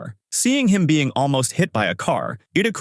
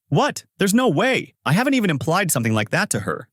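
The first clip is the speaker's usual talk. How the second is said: high, sharp disbelief, voice jumping up; shocked; 8 semitones higher than usual. A narrator's reading. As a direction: caught off guard, gasping out a denial.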